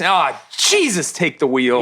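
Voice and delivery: mock exasperation, slow and sighing; exasperated sigh. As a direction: give up with a weary plea. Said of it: "in that sweet Irish accent".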